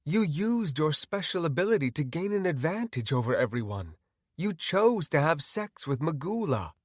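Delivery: calm, measured reproach; composed, unmoved doctor; detached doctor. Acted. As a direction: explain coolly to the patient. Doctor character admonishes.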